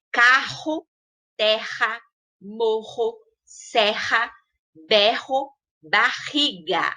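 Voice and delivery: strong, drawn-out RR in Carro, terra, morro; RR forte e prolongado. Shown as a demonstration. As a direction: list Carro, terra, barriga word by word with a strong guttural RR. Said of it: "eu falei ela com entonação forte e prolongada". (RR forte e prolongado em Carro, terra, barriga)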